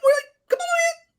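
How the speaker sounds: very high, squealed protest; over-the-top caricature way up high; Nima Naz. Acted. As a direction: squeal it, absurdly exaggerated. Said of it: "And Nima's like".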